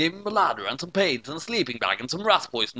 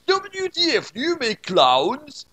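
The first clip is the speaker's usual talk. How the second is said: baffled dad; 12 semitones higher, 4 dB louder, much slower than usual. Acted.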